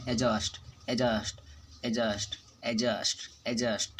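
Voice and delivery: "एडजस्ट" as e-just, silent d, falling each time; model pronunciation. Shown as a demonstration. Teacher drilling the silent d, "एडजस्ट" as e-just, evenly repeated. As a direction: repeat "एडजस्ट" separately without a d. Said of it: "सिर्फ पढ़ेंगे एडजस्ट".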